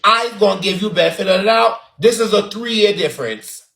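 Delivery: lightly put-on Bajan accent. Shown as a demonstration. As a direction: say it with a Bajan lilt. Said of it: "In my Bajan accent".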